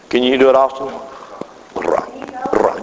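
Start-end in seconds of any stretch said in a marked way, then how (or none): 2.5-2.8 Ra with a trilled R; rolled R. Shown as a demonstration. Preacher showing the congregation how to roll the R. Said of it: "You just roll your R".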